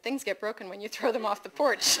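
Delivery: laughing. Real, not acted. Child's cheeky comeback, laughing reader.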